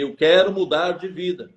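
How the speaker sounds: mild mock yell, a bit firmer; restrained retelling of a shouted plea; retold shout. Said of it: "Aí eu gritei".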